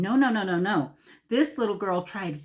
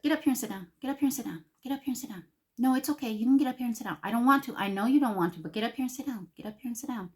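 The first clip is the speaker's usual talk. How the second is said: higher-pitched patient grandma coaxing; firm, no yelling; 5 semitones higher, much faster than usual. Acted. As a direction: repeat the order without ever raising your volume. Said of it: "I didn't have to yell at her".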